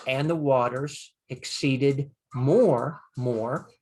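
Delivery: slow literal translation; slow literal reading. Shown as a demonstration. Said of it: "So now instead of just".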